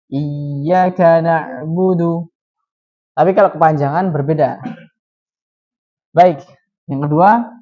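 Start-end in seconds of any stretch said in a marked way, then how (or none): 0.1-2.3 iyyaka na'budu read slowly, ya clipped short; teacher shows iyyaka said with the long ya dropped; wrong short ya. Shown as a demonstration. Teacher shows students the wrong short reading. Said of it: "menghilangkan bacaan panjangnya, dia jadi".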